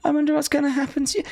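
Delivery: quick high teasing threat; mock menacing. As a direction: tease him with a sing-song threat.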